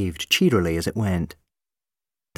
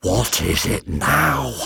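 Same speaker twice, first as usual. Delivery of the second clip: weary sigh; 3 semitones lower, much slower than usual. Acted. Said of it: "The monster sighed".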